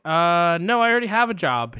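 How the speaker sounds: mock receptionist declining. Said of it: "I'm gonna play both parts".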